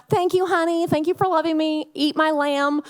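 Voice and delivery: high, sugary voice of a meek wife; hammed-up sweetness; mock meek wife. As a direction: coo it like the sweet wife Hannah wasn't. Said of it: "meek and, like, sweet".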